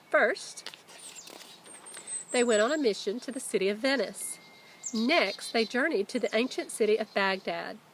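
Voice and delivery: animated storybook narration; reading to children. A narrator's reading. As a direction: tell it like a teacher reading to her class. Reads story to her class.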